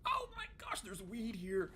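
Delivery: high-pitched squeal of alarm; hammed-up startled outburst; mock yell. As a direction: cry it out high, in exaggerated panic. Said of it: "I might yell".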